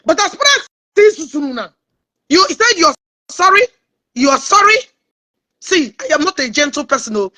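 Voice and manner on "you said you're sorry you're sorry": higher, indignant echo of an apology; incredulous challenge. Real, not acted. Streamer confronting someone who said sorry, indignant and incredulous. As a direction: throw the apology back as a rising question. Throws an apology back, scornfully.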